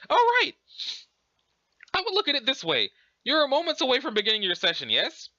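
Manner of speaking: high, bright-eyed British exclamation easing into advice; prim mock-British; Urania Umbra. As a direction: advise in a put-on British voice. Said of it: "pretending to be British".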